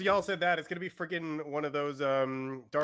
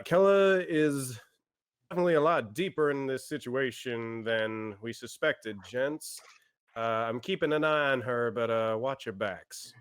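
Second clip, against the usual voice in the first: put-on Southern accent. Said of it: "Are you Southern?".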